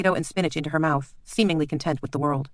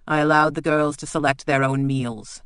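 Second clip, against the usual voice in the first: affronted; 4 dB louder than usual. Acted. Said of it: "sounding affronted".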